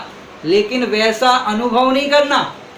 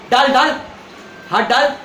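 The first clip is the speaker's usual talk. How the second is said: mother calling out; 3 semitones higher than usual. Retold or imitated. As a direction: shout the command down to the child.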